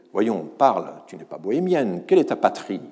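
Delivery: loud, demanding challenge to a stranger; soldiers calling out. Retold or imitated. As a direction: call out to her like a suspicious soldier. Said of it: "interpelle une Vendéenne".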